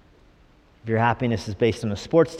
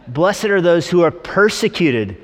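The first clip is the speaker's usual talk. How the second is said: straight scripture reading; 4 semitones higher, 4 dB louder, slower than usual. Acted. Reads the verse straight.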